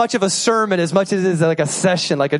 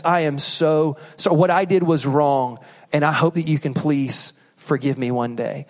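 sincere apology; 5 semitones lower than usual. Shown as a demonstration. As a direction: plead for forgiveness humbly. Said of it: "And it looks like this".

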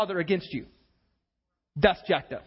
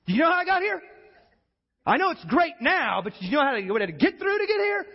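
higher-pitched, mock-aggrieved challenge; acted indignant confrontation; 4 semitones higher, faster than usual. Joseph confronting his brothers over what he suffered, indignant. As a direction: challenge them as the wronged brother.

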